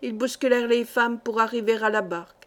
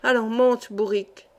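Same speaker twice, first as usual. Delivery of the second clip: contemptuous call. Acted. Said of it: "lui cria avec mépris".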